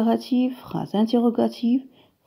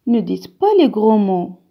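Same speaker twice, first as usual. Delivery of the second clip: louder, stern order to pupils; stern command; 7 dB louder than usual. Shown as a demonstration. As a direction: forbid it firmly. Phrase impérative. (ordre sévère, plus fort)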